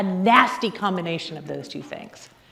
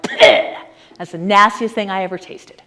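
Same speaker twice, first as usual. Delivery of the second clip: disgusted; 4 dB louder than usual. Retold or imitated. Sip of unexpected drink, disgusted.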